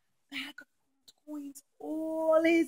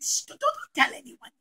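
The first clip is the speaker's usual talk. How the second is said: whisper; 13 semitones higher than usual. Acted. Yehuda pretends to keep secret.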